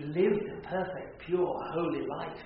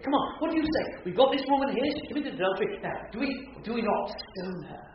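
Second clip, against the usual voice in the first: higher, louder, worked-up demanding crowd; agitated crowd; 5 semitones higher, 4 dB louder than usual. Retold or imitated. Religious leaders pressing Jesus, mock agitated demand. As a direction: press him impatiently like an agitated mob. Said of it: "they become all agitated".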